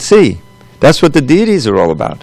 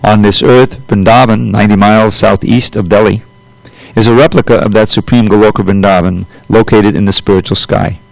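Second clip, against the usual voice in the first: scripture reading. Acted. Teacher reading the purport to students, formal reading voice. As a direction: read the holy text steadily to the class.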